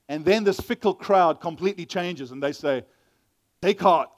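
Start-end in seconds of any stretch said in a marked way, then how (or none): 3.6-4.2 calling out. Acted. Voicing the crowd's changed call.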